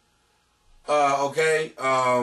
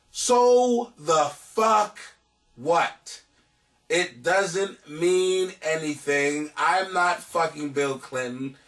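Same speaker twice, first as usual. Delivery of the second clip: translating into everyday talk; much slower than usual. Retold or imitated. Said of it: "In everyday talk, he's saying".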